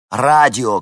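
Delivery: sudden loud cry; shout. A narrator's reading. Henni shouts to Vincent in the helicopter, loud cry. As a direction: yell it out in alarm. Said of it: "крикнула Хенни".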